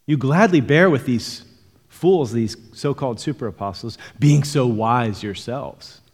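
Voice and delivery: lightly mocking praise with stressed key words; sarcastic. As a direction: quote it with understated sarcasm. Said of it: "he's being sarcastic here".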